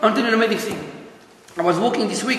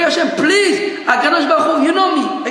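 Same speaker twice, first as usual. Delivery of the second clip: acted plea; 3 semitones higher than usual. Worshipper praying to Hashem on Yom Kippur, acted pleading. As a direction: plead with God as a worshipper would. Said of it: "you have to pray".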